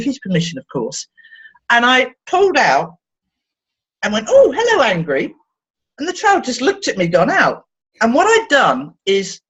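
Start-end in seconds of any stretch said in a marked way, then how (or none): 4.3-5.3 playful high greeting. Retold or imitated. Greets emotion in cupped hand.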